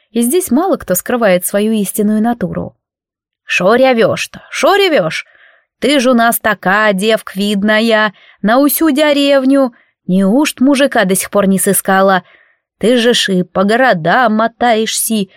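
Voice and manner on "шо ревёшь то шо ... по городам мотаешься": amazed house spirit. Acted. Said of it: "диву давалась Маруся".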